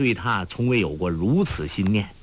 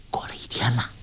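hushed with a smile, finger raised; smiling whisper; 5 dB quieter, faster than usual. A narrator's reading. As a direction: whisper it playfully. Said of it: "黄蓉竖起食指笑道". (竖指含笑低语)

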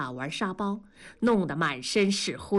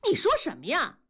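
high-pitched indignant cry; yelling; 8 semitones higher, faster than usual. A narrator's reading. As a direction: fire back with a raised voice. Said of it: "梅梅就喊". (拔高嗓子喊着质问)

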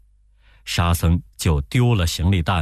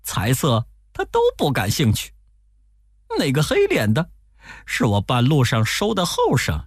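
higher, pleading monk voice; Tang Seng pleading; 7 semitones higher than usual. Acted. Monk begging the robber to let disciples pass, pleading.

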